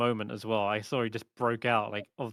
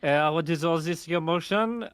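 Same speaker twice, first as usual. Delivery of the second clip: excitable French chef voice; 4 semitones higher, 3 dB louder than usual. Acted. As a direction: voice a flustered French cook.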